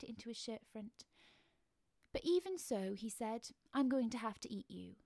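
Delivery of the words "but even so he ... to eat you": regretful monster excusing himself; apologetic crab man. Acted. Mister Krabs apologising before he eats the child, politely regretful. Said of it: "He said this very apologetically".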